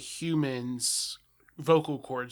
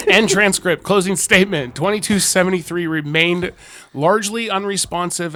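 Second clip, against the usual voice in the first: loud, raised official reading; file narration; 5 semitones higher, 11 dB louder than usual. Acted. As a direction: announce the closing statement formally, projecting. Reads the closing statement.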